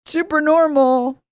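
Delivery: slow, high sarcastic drawl. Real, not acted. Streamer mocking a rival's fan base, sarcastically. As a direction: let the sarcasm drip, slowly.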